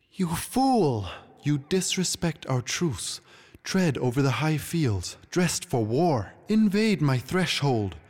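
high, indignant outburst, slowing; angry queen. Acted. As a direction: hurl the accusations one by one. Queen rages at the intruding king.

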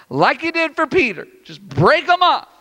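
acted exasperated prayer; impatient plea.

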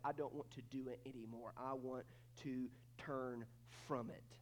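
humble confession. Acted. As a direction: admit the sin humbly, fading. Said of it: "will go".

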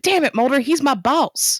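hammed-up hero line, dragged out at the end; mock exasperated agent. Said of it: "that's literally how that episode should have ended".

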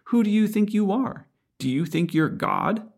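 a scandalized Pharisee, lightly voiced; indignant critics. Preacher voicing critics protesting forgiveness, mock indignant. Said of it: "you can hear them saying".

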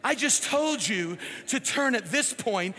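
mock-scolding navigation voice, mildly irritated; lightly acted indignant GPS lady; ticked-off GPS. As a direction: tell off the driver in pretend exasperation. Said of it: "All ticked off".

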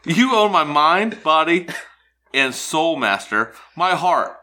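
servile devoted voice. Pretend. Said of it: "I'll be the woman".

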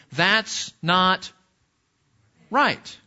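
rising mock indignation on right; indignant protest. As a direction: voice the heart's protest, pitch jumping up.

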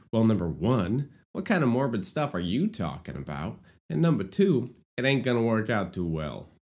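a mild put-on Queens accent; half-joking Queens accent. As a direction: lean into a playful Queens accent. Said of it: "I don't know why I'm doing this accent".

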